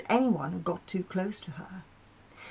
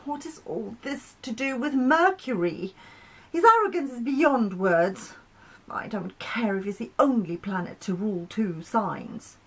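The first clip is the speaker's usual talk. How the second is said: whiny; 2 semitones higher than usual. Acted. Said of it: "her voice more whiny".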